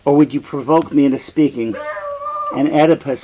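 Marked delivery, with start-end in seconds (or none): 0.0-1.8 louder and fast, a demanding outburst; angry king. Acted. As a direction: hurl the questions at him impatiently. Oedipus angrily demands the prophecy.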